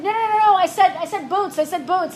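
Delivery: retold frantic correction.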